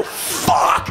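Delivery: a whispered, awestruck curse under the breath; breathy curse. Retold or imitated. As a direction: breathe the word out in wonder. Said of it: "Which is not the thing to yell".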